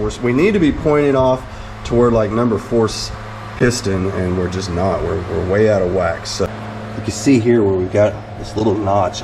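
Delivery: normal talking voice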